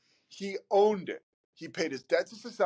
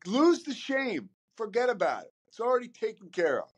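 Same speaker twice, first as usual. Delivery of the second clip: pitched-up self-scolding; 7 semitones higher than usual. Retold or imitated. Inner voice telling self off.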